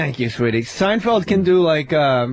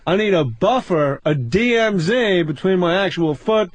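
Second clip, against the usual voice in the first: Seinfeld-style observational bit; 3 semitones lower than usual. Retold or imitated. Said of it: "do a little more".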